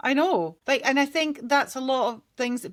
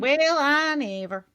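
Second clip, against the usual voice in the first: slow, hammed-up southern US accent; terrible accent; 3 semitones higher than usual. Repeating it after mentioning Alabama, terrible southern accent. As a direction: draw it out in a bad Alabama accent. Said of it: "That was a terrible accent".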